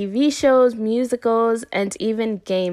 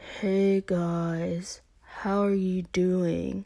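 unenthused, slow, dragging, with "guys" drawn out long; 3 semitones lower, 8 dB quieter than usual. Showing a voice nobody wants in their ear: Ross Geller voice. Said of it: "a Ross Geller in their ear saying".

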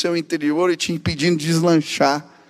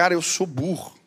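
put-on words spoken through tears, crying; 6 dB quieter than usual. Retelling a young friend's words about failing school, imitating crying. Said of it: "Ele falava isso e chorava".

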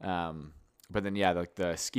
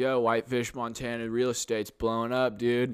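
laid-back hippie snowboarder stoner dude voice; 3 semitones higher than usual. Retelling a stranger's remark about Whitefish real estate, in a hippie snowboard stoner voice. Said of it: "hippie snowboard stoner guy just goes".

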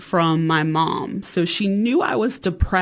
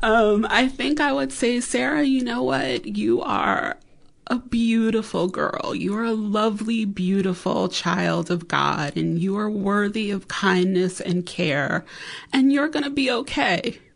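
choked-up, near-tearful voice on the verge of crying; 4 semitones higher than usual. Telling sarah what the speaker would say to her, about to cry. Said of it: "And now I'm about to cry".

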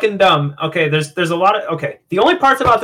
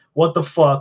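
mock flat, deadpan delivery; 2 semitones lower than usual. Retelling a character's reaction in a movie scene: imitating a deadpan reaction. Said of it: "he's just deadpan".

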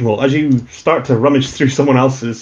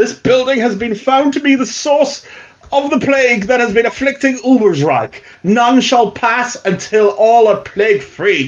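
very high, plummy, posh, official-sounding voice; 10 semitones higher than usual. Voicing a proclamation in a tabletop game, in a more posh voice. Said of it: "you can hear a more posh voice saying".

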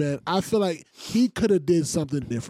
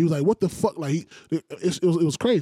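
plain

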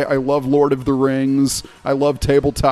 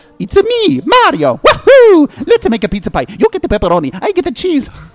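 very high, loud, swooping character voice; 14 semitones higher, 7 dB louder than usual. After a mention of meeting Mario's voice actor, another speaker does a Mario voice. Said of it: "who's the voice of Mario".

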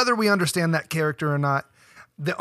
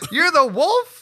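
very high, shrill, jokey, playful put-on shout; 11 semitones higher, 6 dB louder than usual. Answering a friend's call to yell the line: mock yelling. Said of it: "why didn't you yell it that way?".

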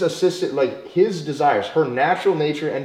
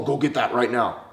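very harsh, bossy, curt, demanding tone; 4 semitones lower than usual. Showing a too-harsh way to ask someone to fetch something: super harsh, demanding tone. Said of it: "super harsh with my tone".

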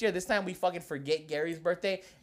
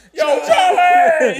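very high, very loud, shrill, blaring mic voice; 12 semitones higher, 13 dB louder than usual. Calling out to Charlie during a group conversation, putting on a mic voice. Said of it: "In my mic voice".

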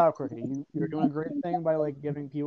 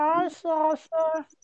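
put-on puppet voice, much higher; 13 semitones higher, 4 dB louder than usual. Recalling someone's bit, the speaker tries the puppet voice. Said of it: "Let me try and first name the puppet voice".

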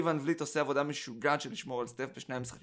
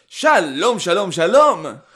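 very loud, high hello full of feeling; 5 semitones higher, 17 dB louder than usual. Panel guest redoing his hello after being asked for more emotion: more emotion. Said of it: "עם יותר רגש".

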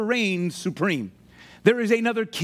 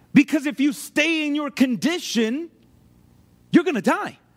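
ordinary talk, nothing marked

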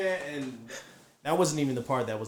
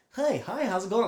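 forced, fake cheerful voice, pitched up; 8 semitones higher than usual. Retelling how a neighbor greeted them: imitating a fake happy tone. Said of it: "like she's happy".

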